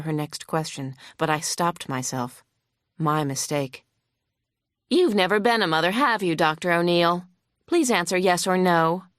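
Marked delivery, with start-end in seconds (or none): 4.9-9.0 lightly voiced hostile lawyer. Opposing lawyer grilling the vet on the stand, mildly huffy. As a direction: press the witness with mild scorn.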